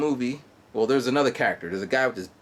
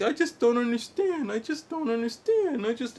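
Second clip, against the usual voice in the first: 1 puzzled friends; 12 semitones higher than usual. Retold or imitated. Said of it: "they're like".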